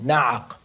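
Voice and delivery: na'aq pitched low, deep in the throat; guttural Arabic word. Shown as a demonstration. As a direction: sound the ayn and qaf in na'aq gutturally. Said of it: "it's like a very guttural sound".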